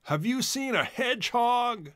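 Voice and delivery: high, light animal voice; a small critter asking politely; character voice. A narrator's reading. Chisel asks the bobcat in a high voice.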